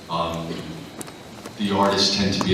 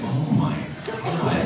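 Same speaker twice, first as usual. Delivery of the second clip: laughing shock; 7 semitones higher, 5 dB quieter, slower than usual. Retold or imitated. Shocked thought while reading.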